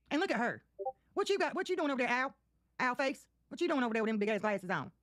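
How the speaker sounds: high, jeering taunts at someone; mocking taunt. Real, not acted. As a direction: needle her with a mocking, sing-song tone.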